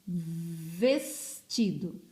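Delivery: "vestido" very slowly, with long v and drawn-out "ves"; first syllable stretched. Shown as a demonstration. Teacher showing where the word begins, "vestido" slowly broken after "ves". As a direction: hold "vesss", then drop into "tido". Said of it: "primeiro som que sai da minha boquinha".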